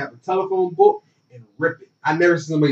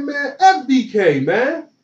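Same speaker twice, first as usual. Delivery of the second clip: higher, pushed-out brag; retold loud defiance; 5 semitones higher than usual. Player mouthing off about the coach behind him, mock loud defiance. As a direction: toss it out boldly, half-laughing. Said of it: "I said it loud".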